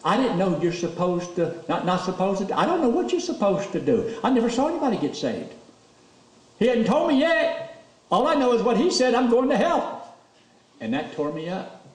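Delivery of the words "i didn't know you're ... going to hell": much higher, strained, close to tears; voice breaking. Real, not acted. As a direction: push through the tears. Preacher reliving tearful conversion.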